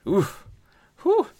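short exhaled oof and whew; moved "oof, whew". Real, not acted. Reader moved by the sad ending, heavy exhaled reaction. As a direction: blow out a breath, affected.

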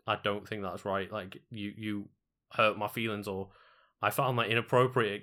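gently and haltingly speak up, politely; polite objection. Acted. Offended person confronting someone over a joke, polite and hesitant. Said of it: "turn around and politely be like".

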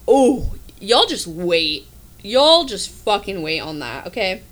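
slow, knowing "y'all just wait"; slow sassy boast; teasing boast. Real, not acted. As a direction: drag it out like a promise.

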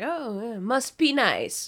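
sarcastic jab. Retold or imitated. To the coworker who won't help, slow sarcastic drawl. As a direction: needle the idle coworker with fake envy. Just giving him shit.

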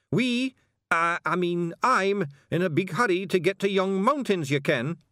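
high, loud Scots voice; high-pitched, insistent Scottish passenger. A narrator's reading. Passenger hurrying the carter along, loud high Scots.

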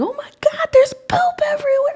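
very high, hammed-up panic, rising to a loud cry; mock horror at the mess; freaking out. Mother overreacting to potty mess, hammed-up high panic. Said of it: "I've had to learn to stop saying".

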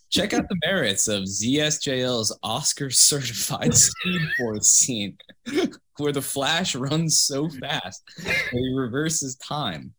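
reading through giggles; can't keep a straight face; laughing while reading. Real, not acted. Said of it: "I'm just gonna read that again".

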